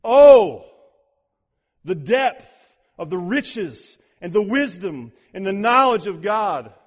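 loud, soaring scripture declamation; exultant proclamation. Acted. Preacher voices Paul overwhelmed atop theology's Mount Everest, exultant proclamation. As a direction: proclaim it in awe, long booming cries easing toward the end. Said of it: "He says this".

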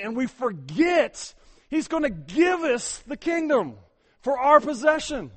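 loud, high sermon build; preaching at full force. Acted. Pastor pressing the congregation, loud and urgent. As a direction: drive the point home from the pulpit.

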